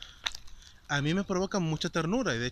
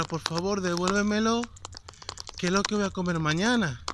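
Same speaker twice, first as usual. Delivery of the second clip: slightly raised, pleading old-lady imitation; helpless little voice; 4 semitones higher than usual. Old lady begging for her food back, mildly imitated helpless plea. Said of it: "con una vocecita como muy de, como muy desvalida".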